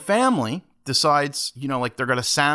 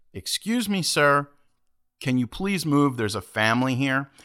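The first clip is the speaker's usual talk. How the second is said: high-pitched, measured politeness; overtly nice; 4 semitones higher than usual. Retold or imitated. Moviegoer asks the man to move for a family, overtly nice. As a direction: make a careful, over-polite request. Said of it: "if I'm overtly nice to you".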